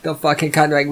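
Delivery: ordinary talk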